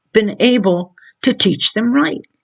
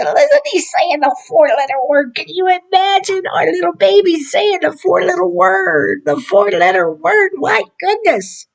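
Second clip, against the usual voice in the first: high, giddy mock delight; excited proud parent; 9 semitones higher than usual. Parent to the room, thrilled by baby's four-letter word, mock excitement. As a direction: gush like a proud parent over a naughty word. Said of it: "you're excited about it".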